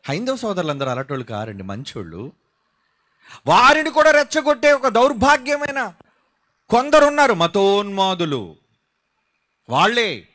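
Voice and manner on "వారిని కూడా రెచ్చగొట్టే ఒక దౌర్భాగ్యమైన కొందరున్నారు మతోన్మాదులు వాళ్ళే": forceful preaching. Acted. Denounces fanatics in sermon.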